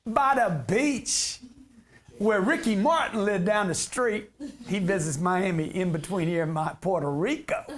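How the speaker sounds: hammed-up Puerto Rican accent, drawn out; slow put-on Puerto Rican accent for laughs; mock Puerto Rican accent. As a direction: play the islander with a joking, stretched accent. Hams up living in Puerto Rico.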